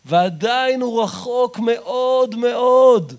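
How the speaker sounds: loud, high, slowed exhortation; fiery preaching. Acted. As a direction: plead with them never to give up. Urging never to give up.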